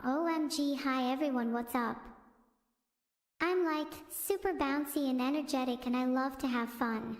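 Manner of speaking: lightly voiced bubbly streamer; a hint of a hyper streamer inviting chat to parkour; Filion impression. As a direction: sell it as bouncy and up for fun. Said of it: "here's my impression of Filion".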